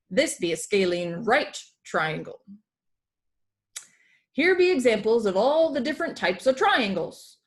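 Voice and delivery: booming classroom pirate, "here be" and "'tis"; a hint of a hearty pirate lecturing; pirate teacher. Pirate teacher explains triangles.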